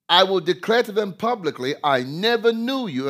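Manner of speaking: "never" pressed hard, high and loud; loud rebuke. Acted. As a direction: proclaim it like a sentence. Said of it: "this is the rebuke now".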